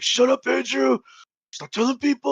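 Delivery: a mocking whine; imitating John. Narrator mimics his embarrassed friend begging him to stop.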